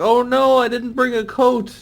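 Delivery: retelling his first rain in America; mild mock panic. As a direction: fret like a boy caught in rain. Own past self voiced worried.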